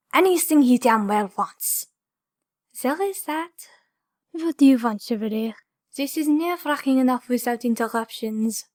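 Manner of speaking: a hint of a sly Frenchman; lightly voiced rival. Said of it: "He pitched his voice to distinguish".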